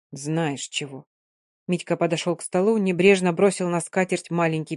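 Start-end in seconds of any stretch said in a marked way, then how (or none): 0.1-1.0 quiet, lower answer; low blunt. A narrator's reading. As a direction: say it heavy and low. (тихо и глухо)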